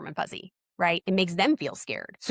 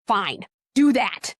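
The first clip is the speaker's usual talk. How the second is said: grudging; 5 dB louder, much slower than usual. Retold or imitated. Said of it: "the doctor's like".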